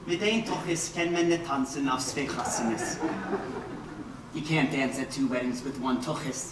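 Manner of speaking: put-on quoting mother in a Yiddish accent; a hint of a Yiddish mother. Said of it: "My mother put it best".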